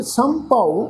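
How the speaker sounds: ਸੰਭਉ with a nasal ਸੰ from the ਟਿੱਪੀ, then ਭਉ; careful pronunciation. Shown as a demonstration. Teacher demonstrating the ਟਿੱਪੀ nasal in ਸੰਭਉ. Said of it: "ਇਹਦਾ ਪਾਠ ਉਚਾਰਨ ਕਰਾਂਗੇ".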